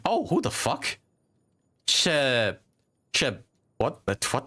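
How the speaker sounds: sudden high, startled outburst; startled surprise. Real, not acted. Gamer startled by an unknown character's voice line. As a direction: caught off guard by an unknown voice.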